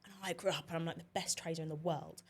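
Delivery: lightly put-on London trader accent; Gary Stevens. Mimicking a trader for the co-host, mock London accent. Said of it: "the accent of".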